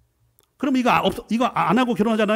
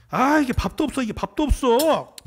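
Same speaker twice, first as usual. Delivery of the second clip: grumbling husband; 6 semitones higher, 3 dB louder than usual. Acted. Husband voiced in marital quarrel.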